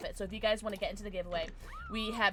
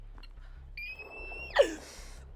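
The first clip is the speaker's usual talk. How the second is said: long, squeaky intake of breath; high-pitched gasp. Real, not acted. Streamer overcome by friends, high-pitched gasp.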